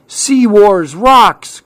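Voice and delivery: high, drawn-out cheer; storybook whoop of delight; excited cry. A narrator's reading. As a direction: cheer it slowly in a character voice. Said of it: "cried Clark".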